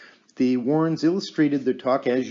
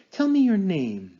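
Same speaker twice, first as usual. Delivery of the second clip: loud, raised command to a spirit; commanding call; 7 semitones higher, 4 dB louder than usual. Acted. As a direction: call out firmly to the unseen. Medium calling the spirit.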